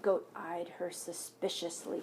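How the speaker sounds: put-on gentle read-aloud voice for children; story narration. A narrator's reading. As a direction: read it like a picture book at story time. Reads picture book aloud.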